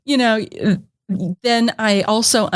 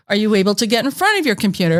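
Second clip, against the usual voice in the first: automated voice; faster than usual. Retold or imitated. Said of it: "says the automated voice".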